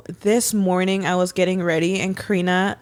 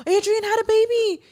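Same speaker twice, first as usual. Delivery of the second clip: much higher, squealing the news; excited squeal quote; 13 semitones higher than usual. Retold or imitated. Telling Brian the baby news, a high excited squeal. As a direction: squeal it out with delight. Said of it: "I was like".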